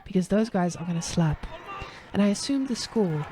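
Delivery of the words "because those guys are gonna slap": ASMR voice. Acted. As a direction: cast the game as budget ASMR. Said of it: "we switching to A S M R".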